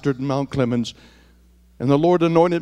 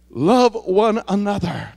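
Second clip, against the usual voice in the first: slow; 3 semitones higher, slower than usual. Shown as a demonstration. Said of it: "he speaks it afresh and anew".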